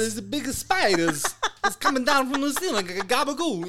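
high, loud silly squeal; giddy high exclamation; silly excited. Real, not acted. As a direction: play up the creepy spider. Silly made-up word, high.

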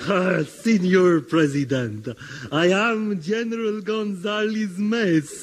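mock Spanish accent. Comic general greets president.

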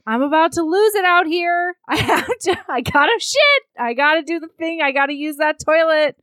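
hammed-up desperate man, laughter breaking in; desperate man outside toilet. Man outside the toilet begging to use it, desperate. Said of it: "a man comes and is like".

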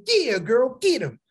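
egging her on. Retold or imitated. Father cheering his daughter on.

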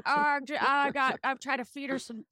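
lightly voiced little kid. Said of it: "Is this your kid voice?".

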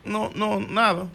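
negación bajita y llorosa; fingiendo llanto. Pretend. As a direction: disimula que lloras, en voz baja. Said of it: "un hombre como llorando". (como un hombre que llora y lo niega)

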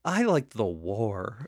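put-on slow, deadpan movie kid line; mock kid character. Quoting the brother from Radio Flyer, slow deadpan kid line. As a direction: drawl it out like the sad kid in the film. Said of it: "Yeah, like".

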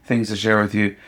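receive them kindly, without any reproach; gentle welcome. Acted. God voiced as welcoming, not blaming.

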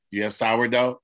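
put-on an old man asking brightly for sourdough; mock hopeful question. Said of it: "he says".

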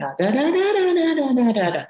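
put-on high singsong baby talk; mum soothing a baby. Shown as a demonstration. Mum cooing to her baby, high and singsong. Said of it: "a mum will hold a baby and she'll be going".

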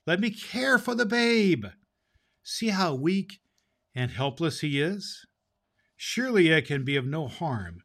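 lightly voiced pleading nymph; soft playful nymph. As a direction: coax him gently to keep the babe. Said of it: "replied the nymph boldly".

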